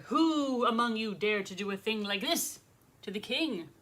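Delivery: moderately loud, indignant royal demand; lightly voiced roar of an offended king; King Solomon roaring. King confronts the insects about his nose, roaring lightly. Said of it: "the king roared".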